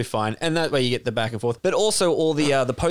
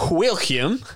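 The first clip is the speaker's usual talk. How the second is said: higher, hammed-up Southern drawl on William; Southern American accent; 5 semitones higher than usual. Actor improvising an American character's last word, exaggerated Southern accent. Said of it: "how does a Southerner say it?".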